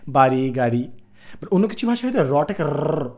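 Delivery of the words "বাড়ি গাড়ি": "বাড়ি, গাড়ি" with a light flapped r; Bangla r demo. Shown as a demonstration. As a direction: native Bangla r. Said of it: "র বলি".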